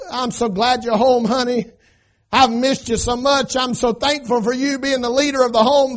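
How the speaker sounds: sweet, gushing wife's welcome; pretend loving wife. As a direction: gush like a doting wife. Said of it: "No, that's not what she said".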